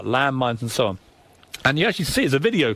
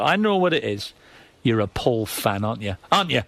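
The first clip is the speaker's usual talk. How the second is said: a hint of Geordie, sly and accusing; 3 semitones lower than usual. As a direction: tease him in a Geordie accent, knowing. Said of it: "And that Geordie voice of it".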